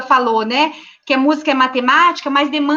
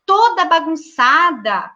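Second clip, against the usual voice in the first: higher, singsong questions to the class; teacher addressing the class; 4 semitones higher than usual. Shown as a demonstration. Teacher asks her class how the messy room should look, playful coaxing. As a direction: coax the children into tidying up. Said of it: "Eu falo".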